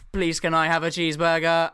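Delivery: robot voice. Retold or imitated. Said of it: "this robot voice".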